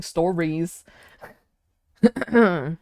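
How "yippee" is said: very high, drawn-out squealed cheering; hammed-up celebration. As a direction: cheer in a silly, loud high voice. Celebrating a 400-day streak.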